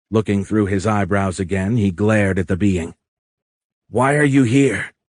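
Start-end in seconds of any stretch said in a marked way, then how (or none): 3.9-4.9 higher-pitched, insistent question; demanding. A narrator's reading. Bound Tony glares at the alien, demanding.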